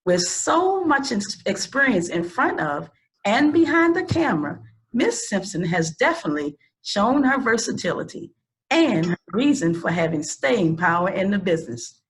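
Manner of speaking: measured read-aloud guest introduction; formal introduction. Real, not acted. Host introduces an actress to the audience, formal introduction. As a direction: present the guest with formal, deliberate phrasing.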